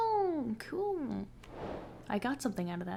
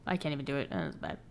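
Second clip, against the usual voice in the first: low, soft self-deprecation; quiet muttering; 6 semitones lower, 6 dB quieter, faster than usual. Real, not acted. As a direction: mutter it under your breath. Self-deprecating after failed voice.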